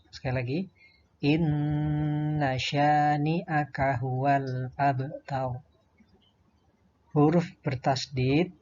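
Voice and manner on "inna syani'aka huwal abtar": slow, sustained recitation with long held vowels; Qur'an recitation. Shown as a demonstration. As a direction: recite it slowly as a model for pupils. Contoh bacaan ayat. (tilawah pelan dengan bacaan panjang)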